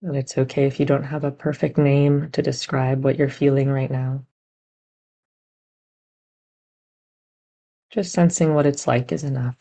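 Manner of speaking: gentle, unhurried meditation guidance with long pauses; guided meditation. Real, not acted. Teacher guiding meditators to sense body and heart, measured meditation voice. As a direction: guide listeners inward, leaving room between phrases.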